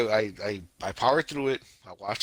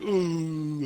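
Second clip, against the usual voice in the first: drawn-out, higher "ooh" of a morning stretch; imitated waking stretch; 5 semitones higher, 3 dB louder than usual. Podcaster acting out the guy waking in bed, stretching groan. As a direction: mimic a sleepy stretch. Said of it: "stretches, like".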